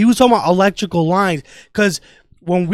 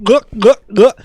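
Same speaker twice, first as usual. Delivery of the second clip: mock gulping; 3 semitones higher, 7 dB louder than usual. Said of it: "He would've gulped".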